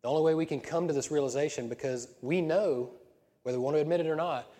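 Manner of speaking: loud, dramatic villain voice. Acted. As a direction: growl it like a movie villain. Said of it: "Got my villain voice there".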